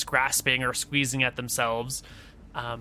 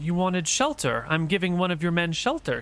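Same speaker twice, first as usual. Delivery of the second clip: woman's voice; 4 semitones higher than usual. Acted. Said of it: "she says".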